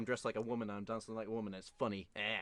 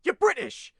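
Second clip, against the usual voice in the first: loud, high burst of disbelief; outraged exclaim; 12 semitones higher, 12 dB louder, slower than usual. Real, not acted. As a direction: blurt it out, stunned and indignant. Mocking Tom Holland's accent switch.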